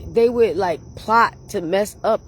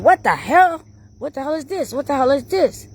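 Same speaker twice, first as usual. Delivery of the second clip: high, startled what the hell; confused coworkers reacting to the mace, a startled high cry; retold alarm; 8 semitones higher than usual. Coworkers choking on mace, startled high questions.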